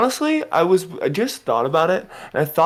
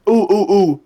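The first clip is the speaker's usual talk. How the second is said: excited; 5 semitones higher, 11 dB louder than usual. Real, not acted. Suddenly thinks of a question.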